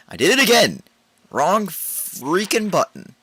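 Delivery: high, loud laughing exasperation; laughing frustration. Real, not acted. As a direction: laugh at your own blunder. Frustrated at own mistake.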